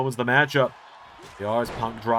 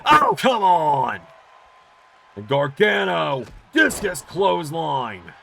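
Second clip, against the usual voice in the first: loud, slow, outraged shout; excited shout; 5 semitones higher, 4 dB louder, slower than usual. Real, not acted. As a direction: yell it in disbelief. Commentator reacts to sudden move.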